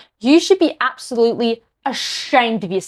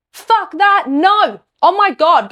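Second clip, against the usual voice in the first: outraged outburst; 6 semitones higher, slower than usual. Real, not acted. Outraged at PM's response.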